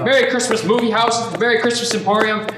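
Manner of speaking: high, delighted calling out; elated Christmas shouts; joyful greetings. Acted. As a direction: greet every building gladly.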